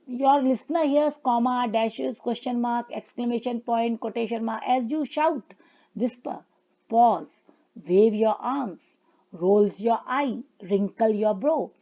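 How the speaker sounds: reading the slide word by word, very slowly; slow read-aloud. Shown as a demonstration. Teacher reading English slide to students, slow and deliberate. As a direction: dictate it slowly to the class.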